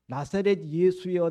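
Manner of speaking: mildly acted loud appeal; calling out. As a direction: call the name out, as if quoting a shout. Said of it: "소리친 것이 아니고".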